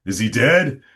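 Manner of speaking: mock-panicked questions, high and loud; hammed-up public alarm, pitch climbing; alarmed fans. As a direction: imitate fans in a rising fluster. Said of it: "So everybody thought".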